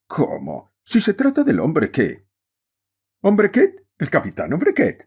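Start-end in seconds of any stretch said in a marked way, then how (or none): 3.2-5.0 much higher, louder call across the room; shouted from afar. Acted. A guest interrupting the whist table from afar, shouting. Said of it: "interrumpió desde lejos y a gritos una invitada".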